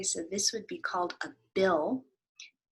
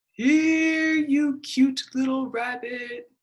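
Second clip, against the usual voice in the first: high, louder coaxing call; 6 semitones higher, 9 dB louder, much slower than usual. Acted. Rabbit calling a bunny, high and coaxing. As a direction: coax the bunny over sweetly.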